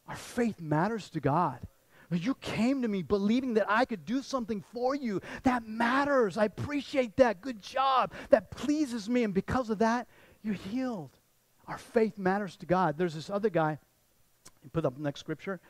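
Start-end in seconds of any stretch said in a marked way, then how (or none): 2.1-11.2 higher, eager praise; heartfelt, emphatic commendation; delighted approval. Acted. Jesus praising someone who believed in him, delighted approval.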